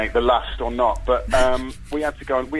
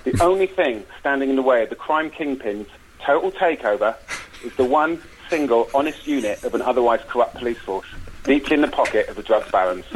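measured trailer-style storytelling; film pitch narration. Acted. Pitching a cop film to the hosts, dramatic narration. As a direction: set the scene in dramatic phrases.

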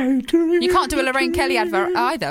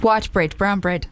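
light South African accent; 6 semitones lower, slower than usual. Shown as a demonstration. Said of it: "this is my South African accent".

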